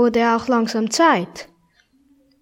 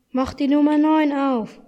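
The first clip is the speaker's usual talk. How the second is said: higher excited call; 4 semitones higher than usual. Acted. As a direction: urge him on, eager. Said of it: "rief Tanner aufgeregt".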